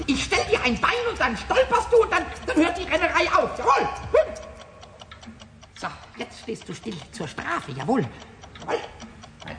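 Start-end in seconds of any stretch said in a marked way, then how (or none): 0.1-4.3 higher, giggling mischief; gleeful laughing threat. Acted. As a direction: laugh while plotting to trip it. Kobold threatening a ticking clock.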